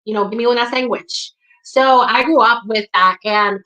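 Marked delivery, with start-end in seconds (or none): 0.3-1.3 "sandwich" pronounced "SANG-wich"; sangwich. Shown as a demonstration. Asking for food as Spanish people do, "sandwich" said as "sangwich". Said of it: "Spanish people typically say sandwich".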